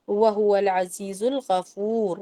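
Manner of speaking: slow melodic tajweed chant; measured Quranic recitation. Shown as a demonstration. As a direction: recite it slowly, stretching the vowels. Recites the verse end.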